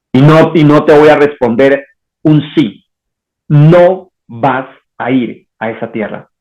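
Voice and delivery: Dios firme, pausado y algo más grave; voz de Dios que niega. Acted. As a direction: negar despacio, con autoridad divina. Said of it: "Dios nos va a decir". (voz de Dios, lenta y tajante)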